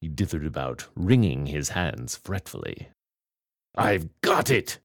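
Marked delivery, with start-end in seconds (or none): 3.8-4.8 a mild eager exclamation, slower; lightly pleased outburst; cried out. Acted. Stressed vampire hits on an idea, mildly excited. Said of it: "he cried".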